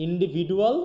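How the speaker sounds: ইন্ডিভিডুয়াল said with a clear d sound; pronunciation demo. Shown as a demonstration. Teacher showing one way to say individual. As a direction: stress the d in ইন্ডিভিডুয়াল. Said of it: "আর কেউ বলে ইন্ডিভিজুয়াল".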